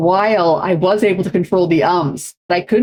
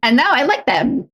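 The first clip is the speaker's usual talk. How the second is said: mock Valley speech; 4 semitones higher, slower than usual. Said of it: "when you say um to like out of context".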